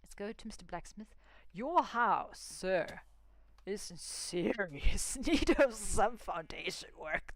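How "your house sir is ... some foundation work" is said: mock stern telling-off. Lecturing the villager blacksmith.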